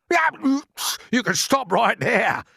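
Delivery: high, loud, slow sharp cutoff. Acted. Earthworm stopping James's plan, sharp. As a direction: cut him off sharply. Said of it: "the earthworm said sharply".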